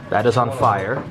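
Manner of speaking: usual speaking voice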